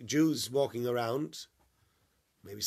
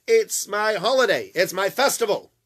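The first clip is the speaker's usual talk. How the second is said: earnest excuse; 8 semitones higher, 10 dB louder than usual. Retold or imitated. His excuse to the strangers.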